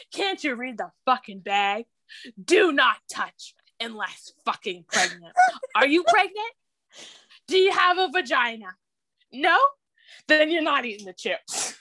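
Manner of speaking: angry scolding. Retold or imitated. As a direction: tear into him for touching the chips. Furious pregnant wife scolds husband.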